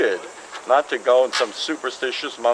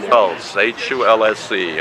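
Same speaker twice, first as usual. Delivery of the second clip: letter by letter, deliberate; spelling it out; 3 semitones lower than usual. Shown as a demonstration. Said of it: "spell it for us".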